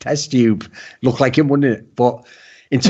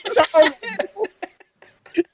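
much higher, dopey lost voice; high silly voice; 11 semitones higher than usual. Retold or imitated. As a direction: play the lost fool, high and goofy. Voicing lost player.

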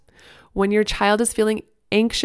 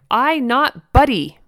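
slow, higher mock toddler yell; imitated toddler protest; 5 semitones higher, 4 dB louder, slower than usual. A narrator's reading. Toddler rejecting mom's nickname, mock indignant yell. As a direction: protest like an indignant two-year-old. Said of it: "he screamed loud enough".

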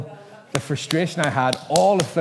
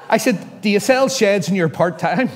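laughing; 7 semitones higher, 7 dB louder than usual. Real, not acted. Laughing at his own mix-up.

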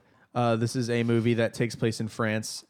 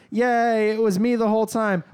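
higher-pitched celebratory stepsister voice; mock triumph; 8 semitones higher, 3 dB louder than usual. Stepsister thinks the prince has picked her, mock-excited. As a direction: cheer in a raised, gleeful voice.

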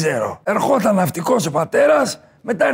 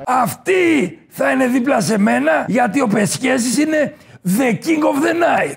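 swaggering boast; 3 semitones higher than usual. Acted. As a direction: announce yourself like royalty. Boasting self-introduction.

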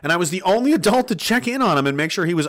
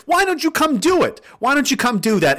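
taunting dare; 11 semitones higher, 3 dB louder than usual. Real, not acted. Taunting the government.

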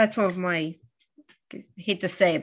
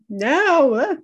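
firm no; 7 semitones higher, 6 dB louder than usual. Retold or imitated. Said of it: "I'd be like".

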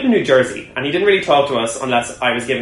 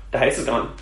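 laughing. Real, not acted. Laughing retelling the disaster.

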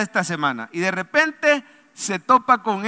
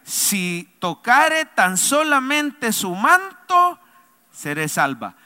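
slow; 2 semitones higher, much slower than usual. Acted. Pastor voices the sick woman.

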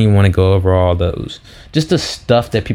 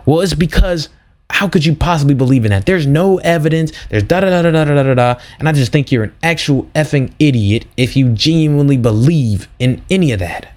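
higher, a lightly voiced scornful atheist; sneering sceptic; 5 semitones higher than usual. Australian guy scorning belief in God, lightly mocked higher voice. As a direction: poke fun at the guy's scorn, pitched up. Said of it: "Guy says".

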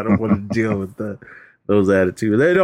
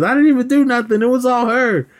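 mock pleading yell; 13 semitones higher than usual. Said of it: "screaming and yelling".

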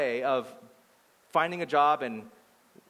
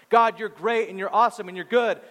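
higher-pitched mock praise; flattering; 5 semitones higher, 4 dB louder than usual. Praying person praising God to be heard, flattering. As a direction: imitate someone buttering up God. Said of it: "I need to flatter him".

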